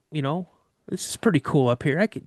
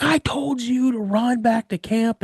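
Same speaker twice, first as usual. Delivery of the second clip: high, slow, strained mock yell; retold freak-out; 9 semitones higher than usual. Dad catching son who stopped running, retold freaked-out scolding. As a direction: imitate dad losing it, pitched up and drawn out. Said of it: "he freaks out".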